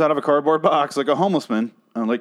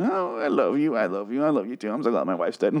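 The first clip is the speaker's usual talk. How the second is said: soft, cuddly mock sweet talk; hushed parody of a smitten boyfriend; mock lovey-dovey; 2 semitones lower, 4 dB quieter than usual. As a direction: coo it quietly, sending up the lovers. Mocks couple's cuddly love talk.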